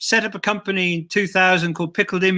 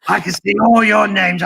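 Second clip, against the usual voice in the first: creepy puppet voice; 4 dB louder than usual. Acted. Puppet eyes viewers' names.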